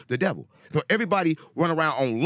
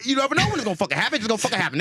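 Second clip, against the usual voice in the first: high, fast, hammed-up voice of Jesus; mock Jesus quote; 6 semitones higher, faster than usual. Street prophet hamming up what Jesus said. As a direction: quote scripture in a mock-excited higher voice. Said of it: "Jesus said in the Bible".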